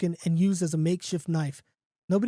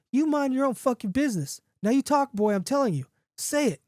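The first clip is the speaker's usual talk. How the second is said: high-pitched, insistent rebuke; angry demand; 7 semitones higher than usual. A narrator's reading. Man to a heckler, then the dog, angry demand. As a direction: tell them off, then order sharply.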